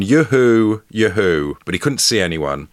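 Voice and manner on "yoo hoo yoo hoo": mock calling out, first call louder; lightly voiced "yoo-hoo" shout; mild retold shout. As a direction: imitate someone calling out while working.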